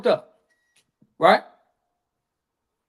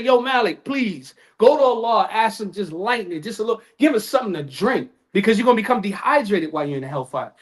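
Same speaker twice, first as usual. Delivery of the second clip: pleading; 4 dB quieter than usual. Retold or imitated. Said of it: "they're begging, they're pleading".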